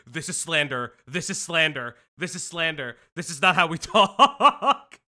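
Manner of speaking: low, repeated mock protest; mock-indignant chat. Host voicing offended Midwesterners in chat, mock indignation. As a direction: drone the complaint, then break into laughter. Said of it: "in our chat's like".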